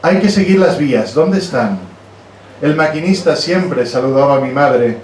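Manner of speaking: measured, declaimed poetry reading; recited verse with firm line openings; poem reading. Acted. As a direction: read your poem aloud to an audience, line by line. Reads own poem aloud.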